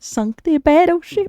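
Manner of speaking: excited game shout. Pretend. Quoting Battleship game.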